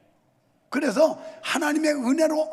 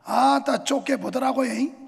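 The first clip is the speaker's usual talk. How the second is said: Jeolla dialect; 2 semitones higher, 5 dB louder than usual. Retold or imitated. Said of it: "전라도는".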